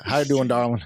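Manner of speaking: lightly voiced Southern charmer; a hint of a Southern boy greeting his darling; impression of guest. Host imitating guest answering the call, light Southern impression. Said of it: "That's your impression of me?".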